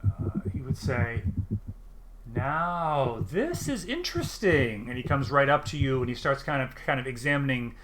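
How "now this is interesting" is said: curious little farmer, pitched up; lightly voiced halfling, intrigued.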